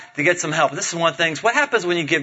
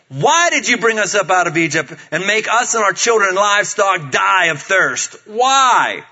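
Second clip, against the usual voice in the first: grumbling complaint; 4 dB louder than usual. Acted. Thirsty people accuse Moses, grumbling complaint. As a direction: complain loudly, stretching the final question. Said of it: "they grumbled against Moses, and they said".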